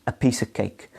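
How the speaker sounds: "piece of cake" linked as pees-uh-cake; softly modelled "piece of cake" with no V in "of"; OF as schwa. Shown as a demonstration. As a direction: let "of" shrink to uh. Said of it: "a schwa".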